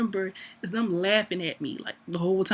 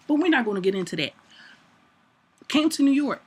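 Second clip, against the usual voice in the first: louder, punchy diva rant; mock indignant; 2 semitones higher, 5 dB louder than usual. Ranting about the one-arm hug, mock indignant. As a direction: scold him, dramatic and loud.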